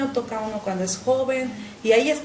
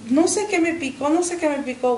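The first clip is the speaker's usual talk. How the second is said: higher, panicked repeat; frightened cry; 5 semitones higher, 3 dB louder than usual. Retold or imitated. Stung girl cries out to her mother in fear. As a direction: cry out in fear after the sting. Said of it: "desperté gritando".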